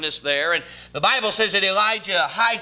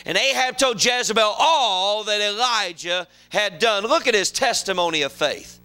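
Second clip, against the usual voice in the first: raised, emphatic pulpit delivery; preaching; 6 semitones higher than usual. Real, not acted. Preacher urging his congregation to have faith, preaching.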